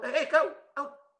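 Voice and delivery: high, drawn-out mock dismissal; bos mengusir. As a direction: act a boss ordering someone out, slowly. Imagined boss ordering someone out. (tiruan bos yang mengusir)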